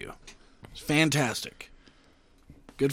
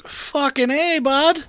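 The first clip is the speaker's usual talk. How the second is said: louder, higher whoop of approval; hyped-up yell; 10 semitones higher, 6 dB louder, much slower than usual. Real, not acted. Joking with his co-host about fancy toilets, loud higher whoop. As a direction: bellow it like a proud buddy. Cheering on a friend's toilet joke.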